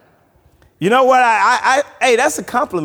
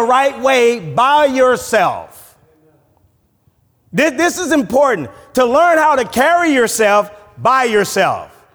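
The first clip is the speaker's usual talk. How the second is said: raised, emphatic sermon delivery; preaching; 6 semitones higher than usual. Acted. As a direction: preach it higher, stretching the key phrases.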